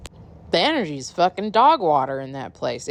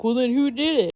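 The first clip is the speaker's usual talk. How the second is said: high put-on whiny rich boy; mock demand; 9 semitones higher than usual. Rich boy demanding who did it, high whiny voice. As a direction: whine it like a spoiled kid. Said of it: "he also is like".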